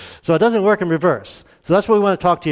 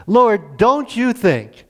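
higher, slow, pleading complaint to the Lord; a hint of a fretting hostess; mock complaint; 6 semitones higher, much slower than usual. Preacher mimics Martha interrupting Jesus, mock whine. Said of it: "interrupts and says".

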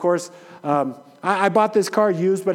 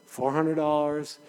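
softer, lower, calming himself down; calm self-talk; 4 semitones lower, 5 dB quieter than usual. Retold or imitated. Pastor retelling his inner talk while waiting, calm and quiet. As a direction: talk yourself down gently, letting it go.

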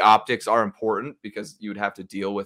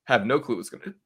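talking through the hiccups; a hiccup breaks the phrase. Real, not acted. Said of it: "Got the hiccups".

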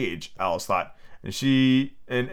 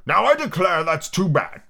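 higher, slow, drawn-out indignant cry; sudden passion; 7 semitones higher, 3 dB louder, slower than usual. A narrator's reading. Humpty reacts to Alice's interruption, in sudden passion. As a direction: burst out in storybook outrage. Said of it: "breaking into sudden passion".

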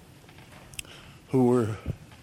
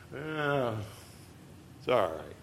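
complacent shrug; 9 dB quieter than usual. Retold or imitated. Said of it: "that attitude, which is".

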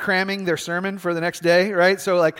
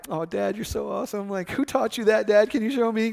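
put-on admiring kid; 3 semitones higher, 4 dB quieter than usual. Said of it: "I felt like I was a kid again".

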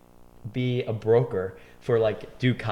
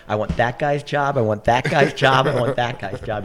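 loud, higher, insistent repetition; emphatic demand; 3 semitones higher, 9 dB louder than usual. Retold or imitated. Young cook tells his boss which job he wants, loud and insistent. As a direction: retell a bold demand, hitting each repeat hard.

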